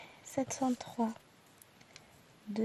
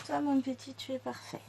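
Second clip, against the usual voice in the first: tender praise; 2 semitones higher, 5 dB quieter than usual. Real, not acted. Talks tenderly to a thread.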